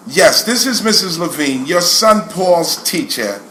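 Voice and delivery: put-on teacher's New York accent, drawn-out ending. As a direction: introduce yourself as a New York schoolteacher on the phone. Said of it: "She had that New York accent".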